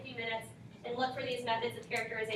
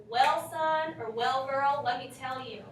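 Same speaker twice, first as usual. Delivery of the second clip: mock folksy elder; 5 dB louder, slower than usual. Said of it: "would you say to your mom or your daddy".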